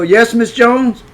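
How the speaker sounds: high, drawn-out innocent answer; innocent reply. Retold or imitated. Boy caught behind a tree answering hostess, innocent. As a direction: imitate a boy answering sweetly, slowly.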